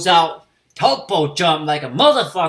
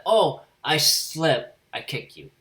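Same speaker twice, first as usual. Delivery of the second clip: mock innocence; slower than usual. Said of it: "were mocking Frieza".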